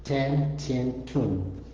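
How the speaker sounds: "ten, tin, tun" evenly listed, falling on "tun"; syllable demonstration. Shown as a demonstration. Teacher drills the endings on the T, evenly spaced. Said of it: "Just on the T".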